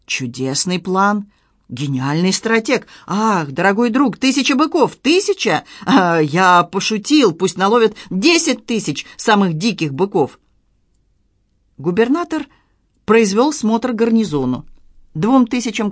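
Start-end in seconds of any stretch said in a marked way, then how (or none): 0.1-10.4 lightly voiced governor, savouring the plan; grandly delighted, with swoops up in pitch; elated governor.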